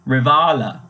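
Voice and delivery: "rivala" with an ee-like i, stressed long "vah"; German pronunciation. Shown as a demonstration. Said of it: "replacing that I with an E".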